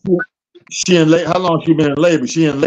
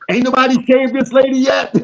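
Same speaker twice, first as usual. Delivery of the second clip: mock baby voice; 8 semitones higher than usual. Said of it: "they said".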